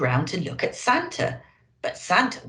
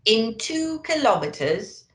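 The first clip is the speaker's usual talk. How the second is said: bossy sat nav lady; 3 semitones higher, slower than usual. Acted. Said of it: "in a bossy lady's voice".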